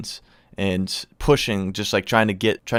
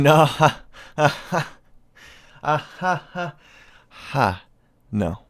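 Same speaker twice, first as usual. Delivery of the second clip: no broken up by laughter; laughing no; 6 semitones higher, much slower than usual. Retold or imitated. Laughing off a friend's mudding invite. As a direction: laugh him off while refusing.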